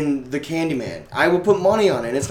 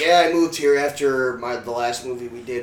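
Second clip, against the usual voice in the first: mock Mulder voice; 3 semitones lower than usual. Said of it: "why I'm talking like this".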